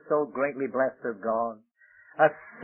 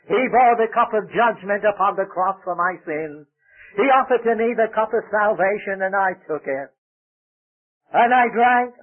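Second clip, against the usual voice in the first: raised, emphatic pulpit testimony; fervent preaching; 5 semitones higher, 5 dB louder than usual. Real, not acted. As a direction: proclaim it with conviction to the congregation. Preaches with rising fervour.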